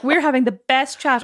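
giggling through the words; laughing. Retold or imitated. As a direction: laugh while saying it. Laughing at own jokes.

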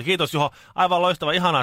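mock gushing thanks. Mock grateful thanks for gift.

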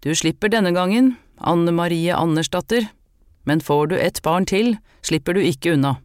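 priest lifting his voice in a chanting, sermon-like tone; a stern priest declaring sentence from the altar. Acted. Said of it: "Han hevet stemmen".

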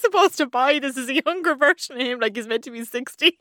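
half-laughing disbelief, pitch up; laughing at the fake teen; incredulous laughing. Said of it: "And you're like".

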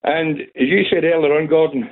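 breathless from running; out of breath, talking between breaths. Real, not acted. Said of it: "sorry, I'm out of breath".

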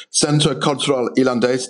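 Centre Culturel Irlandais in a French accent, nasal vowels. Shown as a demonstration. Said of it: "try and pronounce this in a French accent".

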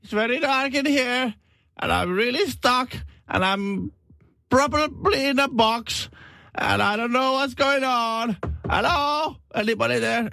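high, slow, stretched-out calls for help; voice from the coffin. Retold or imitated. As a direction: play a confused man stuck in a box. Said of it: "alkaa kuulua semmonen sieltä arkusta".

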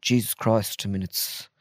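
halting, deliberate Irish talk-show host; weighty pauses between phrases, lightly imitated; Tommy Tiernan. Chat-show host welcoming guests onto the show, halting and earnest impression. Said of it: "You do a brilliant Tommy Tiernan".

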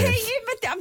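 very high-pitched plea; squealed admission of defeat; helpless protest. Real, not acted. Stumped contestant pressed for answers.

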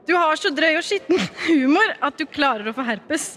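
reading jokes while giggling; fighting back laughter; laughing through lines. Real, not acted. Friend reads a roast aloud, giggling through it. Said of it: "jeg kommer ikke til å klare ikke le".

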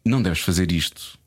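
paternal advice. Retold or imitated. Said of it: "Fui, fui paternalista".

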